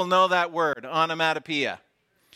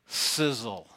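low, hissing sizzle; like a steak on the grill; sizzling sound word; 5 semitones lower, 4 dB quieter than usual. Shown as a demonstration. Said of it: "Here's my favorite".

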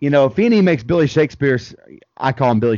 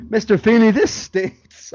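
put-on whiny kid; 8 semitones higher than usual. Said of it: "He comes back in".

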